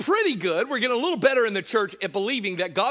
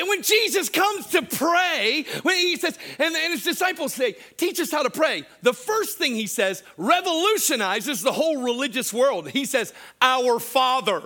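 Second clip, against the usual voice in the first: high, raised preacher's proclamation; impassioned preaching; 6 semitones higher than usual. Real, not acted. Preacher telling how Jesus taught prayer, impassioned and high. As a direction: build to a ringing declaration.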